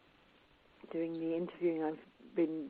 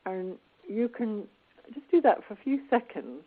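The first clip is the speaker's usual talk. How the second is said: pen in teeth; 5 dB louder than usual. Real, not acted. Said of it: "So I'm holding this pen between my teeth".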